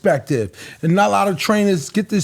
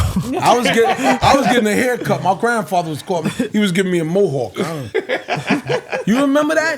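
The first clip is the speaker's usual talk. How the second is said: laughing. Real, not acted. Laughing while recalling a haircut.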